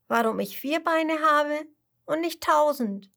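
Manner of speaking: put-on high child voice rattling off questions with wonder; a little cub bursting with curiosity; eager tiger cub. Tiger cub telling the chameleon everything it wants to know, high and eager.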